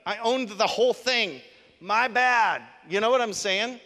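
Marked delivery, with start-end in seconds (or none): 1.8-2.6 emphatic admission. Acted. Owning the whole thing.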